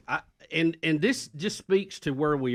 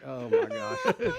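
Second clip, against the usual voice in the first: exasperated; much slower than usual. Retold or imitated. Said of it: "I'm like".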